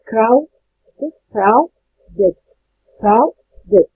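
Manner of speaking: "كراو، ديد" as two detached beats with clear gaps; syllable by syllable. Shown as a demonstration. Teacher counting syllables for students, "كراو، ديد" split in two. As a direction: break "كراو، ديد" apart, one syllable at a time. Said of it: "بتتنطق على مقطعين".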